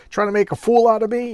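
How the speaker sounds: loud, high mock accusation; bully lashing out. Hunter accusing the assistant who shot the snake, loud mock anger. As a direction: snarl it like a bully. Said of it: "He's just a bully".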